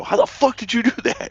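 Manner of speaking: squeaky high stunned question; mock astonishment. Sniped players asking how, high mock astonishment. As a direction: imitate a stunned rival, voice shooting up.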